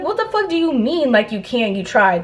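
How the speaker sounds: high-pitched start, incredulous echo; retold exasperated questioning; indignant disbelief. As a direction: throw the excuse back in disbelief. Indignantly echoes friend's excuse.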